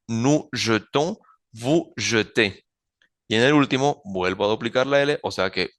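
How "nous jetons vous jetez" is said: "jetons", "jetez" with the weak first E of "jeter"; slow model "jetons, jetez", first E unstressed as in "jeter"; suena como infinitivo. Shown as a demonstration. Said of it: "vuelve a sonar como en el infinitivo". ("jetons" y "jetez" con la primera E débil, como "jeter")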